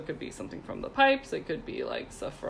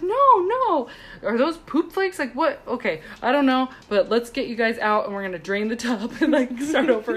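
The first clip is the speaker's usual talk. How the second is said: excited exclamation; 4 semitones higher, 4 dB louder than usual. Retold or imitated. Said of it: "She's like".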